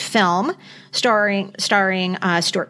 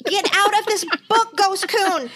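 playful exclamation; 10 semitones higher than usual. Retold or imitated. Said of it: "mock address to the character".

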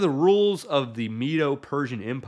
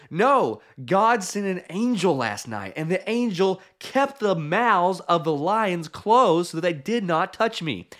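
tag; 4 semitones higher than usual. Acted. Daniel's answer to king acted.

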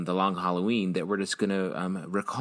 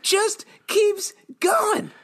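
much higher, slow stretched-out wail; dragged out; 4 dB louder, much slower than usual. Acted. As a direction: stretch every word out forever. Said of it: "the drag it out symbol".

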